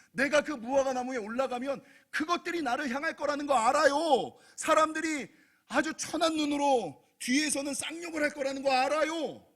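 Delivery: urgent pulpit delivery; impassioned preaching. Real, not acted. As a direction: preach it with rising force. Preacher rises into impassioned appeal.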